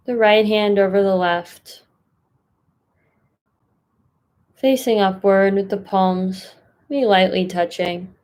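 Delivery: unhurried meditation guide, long pauses between phrases; guided meditation. Acted. Mindfulness fellow settling listeners into a comfortable seat, guided meditation. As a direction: ease listeners into a posture, phrase by phrase.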